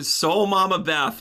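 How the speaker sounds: a fond shout-out; savoring a name. Real, not acted. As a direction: roll the name out with delight.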